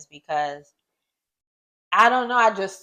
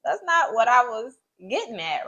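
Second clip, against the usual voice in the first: high, shocked protest; 7 semitones higher than usual. Retold or imitated. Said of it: "I'm like".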